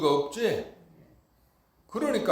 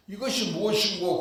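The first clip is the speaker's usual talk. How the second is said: quoted hwadu question; 5 semitones higher than usual. Retold or imitated. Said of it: "이렇게 하라고 그랬지?".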